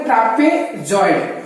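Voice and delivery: ट्रापेजॉइड slowly split, last part set apart; slow careful naming. Shown as a demonstration. Teacher gives students the other name, ट्रापेजॉइड slowly broken in parts. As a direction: sound out ट्रापेजॉइड in separate pieces. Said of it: "या उसको बोलते हैं".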